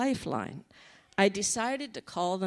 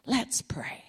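compassionate; 8 semitones higher, 3 dB quieter, slower than usual. Retold or imitated. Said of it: "the man said with compassion".

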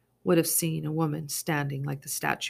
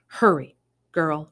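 urgent; 8 dB louder, slower than usual. Acted. Old woman urging Summer.

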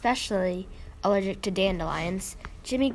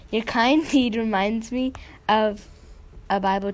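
laughing; 3 dB louder than usual. Real, not acted. Reader laughs at own slip.

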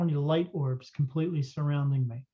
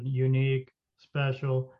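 lower, even robotic voice, one word at a time; computer voice; 4 semitones lower, slower than usual. Retold or imitated. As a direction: mimic the machine reading out words. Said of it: "It said it in this computer voice".

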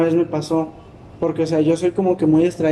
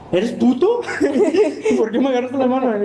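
mock teasing; 7 semitones higher than usual. Friend teasing about hand touch.

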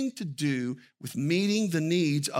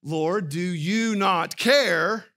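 slow complaint; 3 semitones higher, 3 dB louder, much slower than usual. Retold or imitated. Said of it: "She goes to Jesus".

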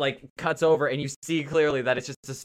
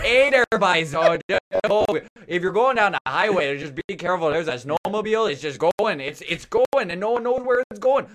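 newscaster; 6 semitones higher, 6 dB louder than usual. Pretend. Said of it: "Pretend you're the newscaster".

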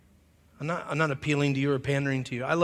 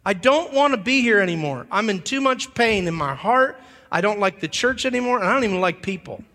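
retold anguished plea; 5 semitones higher, 3 dB louder than usual. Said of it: "I shouted at the top of my lungs".

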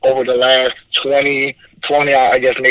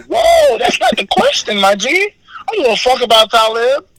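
exasperated; 10 semitones higher than usual. Real, not acted. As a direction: throw up your hands at him. High exasperated rant.

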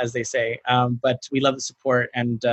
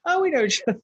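excited; 12 semitones higher, faster than usual. Retold or imitated. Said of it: "I felt like".

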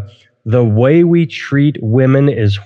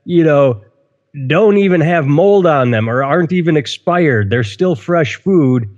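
whiny offender; 3 semitones higher than usual. Retold or imitated. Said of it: "and like".

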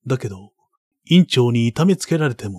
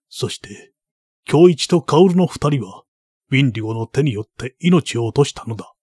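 put-on creaky wise old man. Baron reveals the killer.

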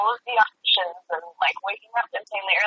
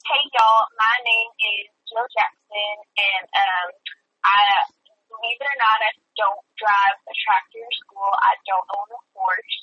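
Texan accent. Shown as a demonstration. Guest demos a Texan accent for the podcast host. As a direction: greet them in an easygoing Texan accent. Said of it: "That's Texan".

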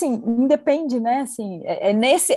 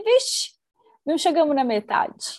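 surprised; 6 semitones higher than usual. Retold or imitated.

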